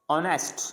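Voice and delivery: ऑनेस्ट starting on the vowel, no h; ऑनेस्ट with a mute first letter; silent H. Shown as a demonstration. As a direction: leave the H out of ऑनेस्ट. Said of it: "इसमें भी एच नहीं बोला जा रहा".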